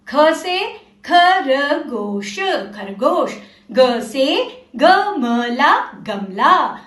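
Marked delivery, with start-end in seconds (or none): 0.1-2.4 slow model. Shown as a demonstration. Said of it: "मेरे साथ साथ आप भी बोलना।". 3.7-5.9 slow model. Shown as a demonstration. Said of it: "मेरे साथ साथ आप भी बोलना।".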